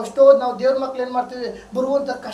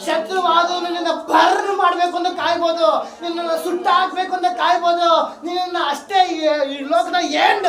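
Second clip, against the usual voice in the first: impassioned, raised-pitch sermon; fervent preaching; 4 semitones higher than usual. Real, not acted. Preacher telling of enemies waiting to destroy believers, fervent preaching. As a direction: build the threats up for the congregation.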